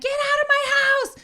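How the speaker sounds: very high, loud order to leave; panicked scream. Retold or imitated. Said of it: "I'm fucking panicking".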